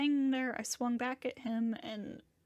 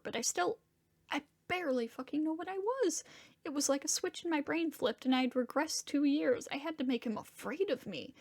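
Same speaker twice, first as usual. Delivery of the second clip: agitated, higher-pitched self-reproach; distraught confession; 3 semitones higher than usual. Acted. Confessing to a friend why he attacked the man, distraught. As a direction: spill it out, upset and baffled at yourself.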